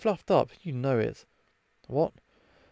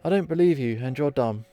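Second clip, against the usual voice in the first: singsong playground jeer, a little louder; childish taunt; 3 dB louder than usual. Acted. Vixen taunting Alice in a childish singsong. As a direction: chant it like a sulky kid. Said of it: "Very mature".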